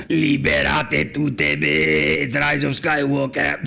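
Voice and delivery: mock dramatic quote. Mock quoting Rey line.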